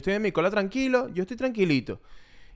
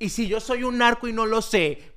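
slow, laughing worried self-question; mock panic; 4 semitones higher, slower than usual. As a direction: ask it with a laugh, half-panicked. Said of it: "me pongo así todo loco". (pánico fingido, lento y riendo)

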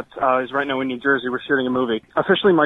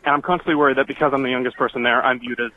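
out of breath. Real, not acted. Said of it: "Breath, this is awful".

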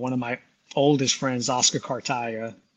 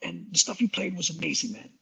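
a drummer's voice; 4 semitones higher than usual. Retold or imitated. A drummer inviting Mark to tour Europe, booming. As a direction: boom down the phone like the drummer. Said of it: "I'm gonna do it in the voice of Butch Trucks".

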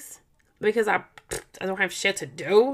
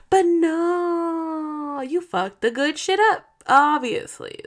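angry crying rant; 7 semitones higher, much slower than usual. Real, not acted. Ranting at husband, voice cracks.

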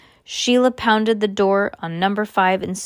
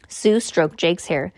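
ordinary delivery

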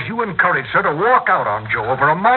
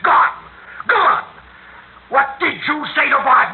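raised voice; 11 semitones higher than usual. Acted. Husband raising his voice at his wife, pained. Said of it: "Don't you dare raise your voice to me".

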